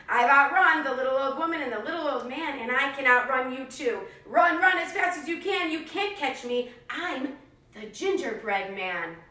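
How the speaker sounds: loud, cheeky boast; taunting gingerbread man. Acted. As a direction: brag and tease the pig. Cookie taunts the pig.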